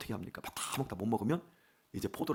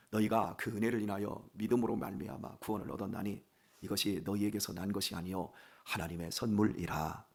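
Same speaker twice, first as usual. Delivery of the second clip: low, softened Bible recital; scripture recitation; 3 semitones lower, 4 dB quieter than usual. Acted. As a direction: recite the verse evenly from memory, pitched low. (낮고 차분한 성경 암송)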